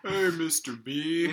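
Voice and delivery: high, slow put-on student voice, laughing underneath; fake-innocent hello to the teacher; mock polite student. Student greeting the teacher whose car she hit, mock innocent.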